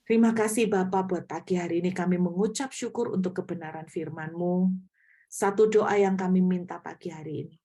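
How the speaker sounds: earnest congregational prayer; full-voiced, sincere prayer to God. Real, not acted. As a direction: lead the room in thankful prayer. Leads closing prayer to God.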